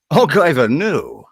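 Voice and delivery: hammed-up stock Scottish accent; mock Scottish demo-reel voice. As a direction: do a silly over-the-top Scottish accent. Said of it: "that's a Scottish accent".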